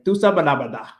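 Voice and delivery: "tú sabes la verdad" run together, clipped "sabe la verdá"; quick Dominican "tú sabes la verdad"; Dominican accent. Shown as a demonstration. Showing a friend her Dominican way: clipped "tú sabes la verdad". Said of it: "Instead of saying".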